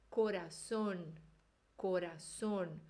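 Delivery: corazón, slow, with a closed O; Spanish with a closed O. Shown as a demonstration. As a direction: say corazón slowly and keep the O closed. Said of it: "Sempre com O fechado". (corazón devagar, com O fechado)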